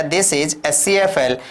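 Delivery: slow, clear classroom drill; slow model sentence. Shown as a demonstration. Teacher drilling simple sentences slowly for learners. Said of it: "आपने कह दिया".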